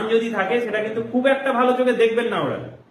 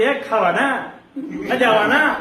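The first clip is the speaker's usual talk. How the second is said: lightly done Murshidabad drawl, with a laugh; a hint of Murshidabad regional twang; Murshidabad regional accent; 2 semitones higher than usual. Shown as a demonstration. Teacher demoing his home Murshidabad accent, playfully. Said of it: "particular মুর্শিদাবাদে যে টান".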